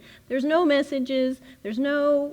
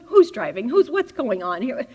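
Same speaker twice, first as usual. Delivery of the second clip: a touch of alarmed questioning; mild mock panic; 4 dB louder than usual. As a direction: ask it like you're clinging to the seat. Panicked passenger in back seat.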